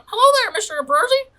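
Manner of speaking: high, fast, stiff hello; startled formal greeting. Acted. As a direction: snap to attention and greet the boss. Kruk greets surprised, straightening up.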